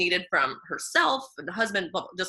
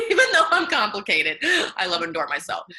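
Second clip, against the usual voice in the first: mantra through laughter; 6 dB louder, faster than usual. Shown as a demonstration. Repeats her mantra to the host, laughing. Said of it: "my mantra for our rebels is".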